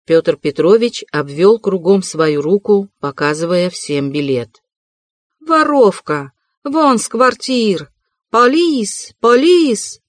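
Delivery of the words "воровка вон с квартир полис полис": высокий пронзительный вопль; визгливо зовёт полицию. A narrator's reading. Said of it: "завопила Амалия Ивановна". (хозяйка Амалия Ивановна вопит на Соню)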